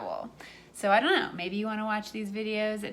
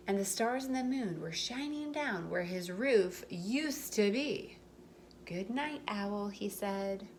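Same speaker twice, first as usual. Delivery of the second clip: gentle storybook read-aloud; reading to children; 3 semitones lower than usual. A narrator's reading. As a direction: tell it like a bedtime story for little ones. Reading picture book aloud.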